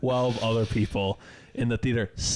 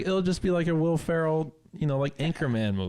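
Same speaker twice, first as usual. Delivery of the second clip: breezy mom; 6 semitones higher than usual. Retold or imitated. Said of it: "she was just like".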